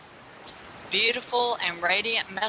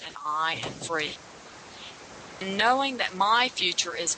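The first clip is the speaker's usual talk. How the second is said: spoken affirmation. Acted. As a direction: recite each line like a prayer. Reads affirmations and guided breathing.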